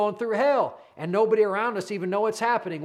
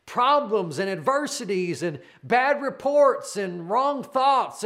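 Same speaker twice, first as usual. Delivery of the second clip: excited; 3 semitones higher than usual. Real, not acted. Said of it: "I'm getting excited".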